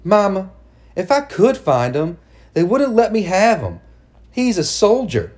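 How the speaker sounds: high, pleading daughter; desperate pleading. Acted. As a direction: beg her desperately.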